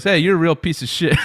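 loud, high, laughing yell; mock insult shout. Guy in a TikTok yelling at Joel Osteen, half-laughing shout. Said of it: "And he goes".

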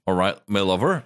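lightly put-on West Country farmer; a hint of southwest English farmer accent; playful farmer-accent greeting. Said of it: "You're the farmer".

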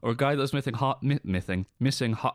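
stumbling words while chewing a lozenge. Real, not acted. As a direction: talk through a chewed lozenge. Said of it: "I'm chewing a lozenge".

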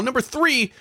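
high-pitched scold. Pretend. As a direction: scold like a fussy parent. Scolding Kyle's chomping teeth.

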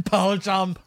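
put-on Scottish accent. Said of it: "And he said".

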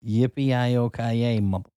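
slow, drawn-out mock action hero line; Die Hard catchphrase. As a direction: stretch it like a cowboy hero.

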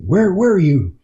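high, sharp scolding question; a hint of a furious mother demanding answers; retold angry mother. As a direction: imitate a mom catching her kid out. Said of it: "with this very angry look on her face".

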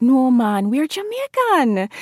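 parents in a high Jamaican lilt, slow; Jamaican-accented parents, slow and high. Retold or imitated. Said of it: "they were like".

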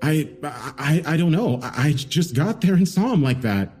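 a rattled suspect fumbling for words; stammering and scared. Acted. Suspect stammering his account to the detectives, frightened.

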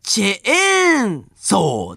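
チェーンソー with stress on チェ and ソ, drawn out; American chainsaw accent. Shown as a demonstration. Reading a listener's letter on pronunciation, trying out the American chainsaw accent. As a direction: slowly say チェーンソー the American way, hitting チェ and ソ. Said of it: "チェーンソーのえとソにアクセントが".

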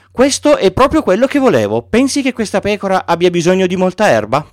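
put-on the boy lights up at the box; Little Prince thrilled with his present; delighted child.

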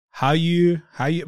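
super white South African accent. Shown as a demonstration. Showing off their replicated South African accent, white South African accent. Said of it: "pretty good South African accent that I can replicate".

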